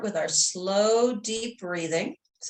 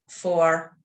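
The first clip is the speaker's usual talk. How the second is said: "four" sustained lower, letting the breath go; settling breath count; 3 semitones lower, 3 dB louder than usual. Real, not acted. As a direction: count held low on the exhale.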